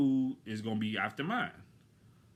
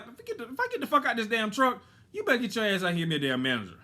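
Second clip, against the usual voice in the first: furious threat; 7 semitones higher, faster than usual. Retold or imitated. Angry customer threatening the server, furious and fast. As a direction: threaten her, fed up.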